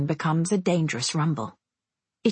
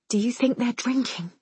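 put-on higher, hushed girl's voice; sister's frightened question; 5 semitones higher than usual. A narrator's reading. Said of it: "Tatiana asks finally".

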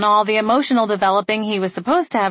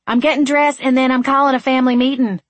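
louder, higher shout on the run; 6 semitones higher, 5 dB louder than usual. A narrator's reading. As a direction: call it out while running. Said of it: "she shouted as she ran".

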